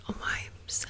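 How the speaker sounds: "vibes" said as "wibes", German style, with a w and a hard b; a playful German accent on "vibes"; mock German accent. Shown as a demonstration. Joking about the clerk's punk outfit, in a whispered German accent. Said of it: "as they say in Germany".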